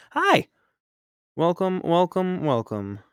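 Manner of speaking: bright high squeal of a hello; excited hi. Real, not acted. Streamer greets arriving friends, excited and high. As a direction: greet them loudly and high.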